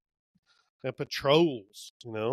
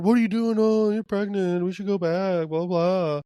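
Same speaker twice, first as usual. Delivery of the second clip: mock character voice; 4 semitones higher, 3 dB louder than usual. Voicing character in recap.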